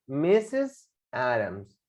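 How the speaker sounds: "Missus Adams" slowly, word by word; pronunciation demo. Shown as a demonstration. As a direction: model "Missus Adams" as MI-sis A-dams. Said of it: "Fíjate cómo se pronuncia".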